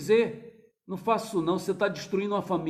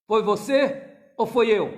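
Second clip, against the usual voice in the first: indignant question; 4 semitones higher, 7 dB louder, slower than usual. Retold or imitated. Father challenges son.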